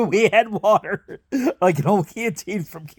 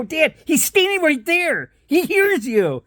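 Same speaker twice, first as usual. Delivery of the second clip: pitched up in urgent retold protest; embarrassed protest; 7 semitones higher than usual. Kid telling dad the man hears him, high insistent protest.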